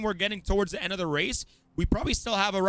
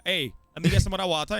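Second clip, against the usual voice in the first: quick Virgin Islands "water"; Virgin Islands accent; 3 dB louder, faster than usual. Shown as a demonstration. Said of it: "we say".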